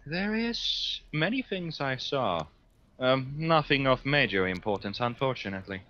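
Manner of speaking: lightly voiced, measured psyker; psyker character. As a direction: play a formal psyker answering an interrogator. Psyker reports what was seen.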